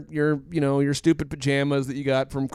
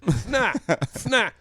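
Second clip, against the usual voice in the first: fake sniffle; 4 semitones higher than usual. Shown as a demonstration. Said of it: "You wanna say that".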